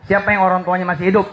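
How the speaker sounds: fast, rattled-off question to the crowd; quick rushed ask; rapid question. Shown as a demonstration. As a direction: fire it off quickly. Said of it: "repeated question".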